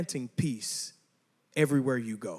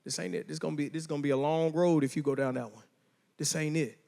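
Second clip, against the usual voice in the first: calming a friend; 5 semitones lower, 8 dB quieter, faster than usual. Retold or imitated. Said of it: "You be like".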